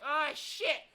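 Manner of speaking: loud, high panicked yell; hammed-up cry of a doomed protagonist; mock scream. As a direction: ham up the hero's panic. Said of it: "Yuri will scream and be like".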